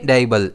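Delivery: डाइबल said as DAI-bel, stress on the D; careful teacher pronunciation; pronunciation demo. Shown as a demonstration. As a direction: model डाइबल clearly. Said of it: "इसे हम pronounce करेंगे".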